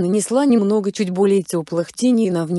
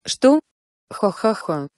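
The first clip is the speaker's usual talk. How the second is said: mocking laugh; slower than usual. Sister mocks shy Hinata.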